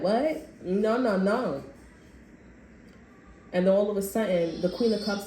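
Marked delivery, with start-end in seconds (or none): 0.0-1.6 startled denial. Retold or imitated. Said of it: "you like".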